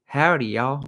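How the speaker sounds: lightly put-on Texas twang; Texas accent. Greeting visitors to Texas, light Texas accent. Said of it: "come to Texas and you wanna hear".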